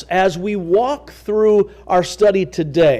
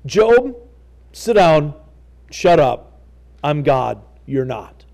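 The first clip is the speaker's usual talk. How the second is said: a blunt put-down, trailing off; God's stern rebuke; 5 semitones lower than usual. Retold or imitated. Preacher repeats God telling Job to sit down, lightly stern. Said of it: "the tone that you see in the words".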